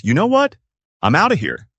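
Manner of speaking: a cheeky brain bowing out in a put-on voice; brain's mock exit line. Host voicing the panicking brain walking off, mock.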